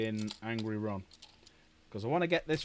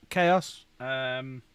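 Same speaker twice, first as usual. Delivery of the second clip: calling out; 4 semitones higher, slower than usual. Real, not acted. Calling Chaos from another room for help, raised voice. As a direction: call for help across the house.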